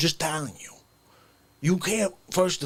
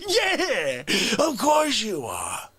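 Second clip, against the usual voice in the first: excited cheer; 4 semitones higher, slower than usual. Retold or imitated. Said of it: "you're not gonna be like".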